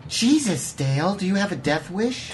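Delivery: high, incredulous exclaim; exasperated. Acted. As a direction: disbelief at a wild idea. Reacting to proposal.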